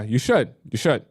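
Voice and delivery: usual speaking voice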